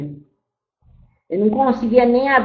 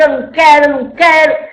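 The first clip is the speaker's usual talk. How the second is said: retold screaming; 3 semitones higher, faster than usual. Tied and dragged, she re-enacts screaming her refusal. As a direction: cry out refusing to work. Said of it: "e eu gritando".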